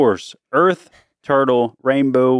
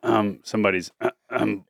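clearing throat on purpose over the words; put-on throat clearing to tease; fake cough; 5 semitones lower, 5 dB quieter than usual. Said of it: "I was fake coughing".

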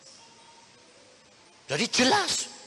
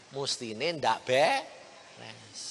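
very slow, drawn-out gossip; slow mocking gossip; mock judging; 4 semitones lower, much slower than usual. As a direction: stretch it out like a judgmental gossip. Mocking judgmental churchgoers.

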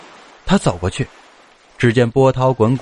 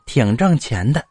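lightly voiced old mother, drawn-out pleading words; slow, coaxing mother with a rising lilt; old mother urging; 3 semitones higher than usual. Old mother talks her son into leaving to peddle, gently urging.

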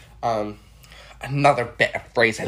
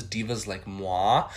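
divas like moi; 5 semitones lower, much slower than usual. Retold or imitated. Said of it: "all I needed to read was".

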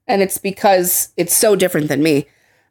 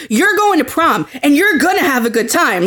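higher, insistent acted order; mock threat; 4 semitones higher than usual. Character ordering friends to go to prom, mock threatening. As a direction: lay down the law as an imitated threat. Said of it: "she threatened them with it".

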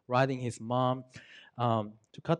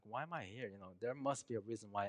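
a soft, much quieter voice, wondering to himself; quiet inner musing; 11 dB quieter than usual. Retold or imitated. Barber wondering why God sent him here, quietly musing. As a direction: murmur the question inward.

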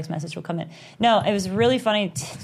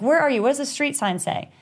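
higher, mildly frantic questioning; worked-up but not shouted; retold freak-out; 6 semitones higher than usual. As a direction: replay yourself overreacting on the phone. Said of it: "And I'm freaking out".

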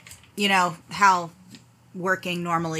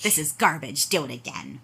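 stern boss; 5 semitones lower, 3 dB quieter than usual. Retold or imitated. Boss quoted dismissing report.

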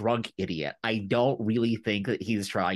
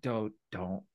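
mock warning; 4 semitones lower, 9 dB quieter than usual. Daemon warning Criston, retold.

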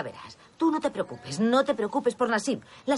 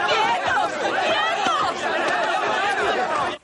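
high, loud yell to stop; commanding shout; 11 semitones higher, 5 dB louder, much slower than usual. Acted. Mother stopping the boys' fight, shouting loudly. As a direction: bark them apart.

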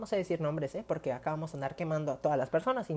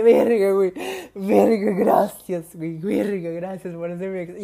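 much louder, shouting thanks; overjoyed outburst; 3 semitones higher, 11 dB louder than usual. Retold or imitated. Shouting thanks to best friend after the grade. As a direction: blurt out relief at the grade. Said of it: "Yo estaba llorando así".

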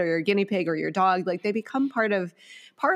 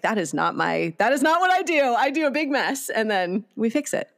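animated protest to her husband; emphatic; 3 semitones higher than usual. Retold or imitated. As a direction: insist to her husband, then ease down. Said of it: "And I'm like".

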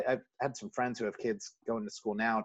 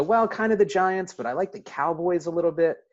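put-on retelling his nine-year-old self's eager, high-pitched, louder answer; eager kid's answer; 8 semitones higher, 6 dB louder than usual. A young boy eagerly tells the priest his favourite teams, higher and louder. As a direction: pitch it up and push it out like an excited little boy.

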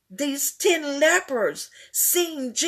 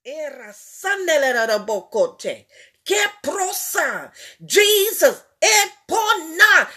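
speaking in tongues; 2 semitones higher than usual. Real, not acted.

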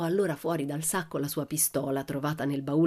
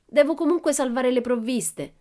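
high, loud called-out declaration; shout; 7 semitones higher, 6 dB louder than usual. A narrator's reading. Pippi vows to save the provisions, shouting. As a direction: call it out loudly to the crew. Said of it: "gridò".

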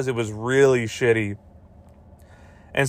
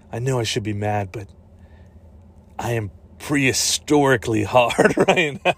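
mock-serious movie hero. John Stamos character confessing love, mock-serious then laughing. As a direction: deliver it gravely, then crack up. Deadpan romance line, breaking into laughter.

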